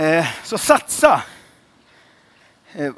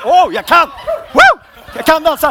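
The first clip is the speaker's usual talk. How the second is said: high, loud laughing cheer; mock overjoyed; 9 semitones higher, 8 dB louder than usual. Pastor playing a dancer who suddenly succeeds, high laughing mock cheer. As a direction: burst out in triumph, laughing.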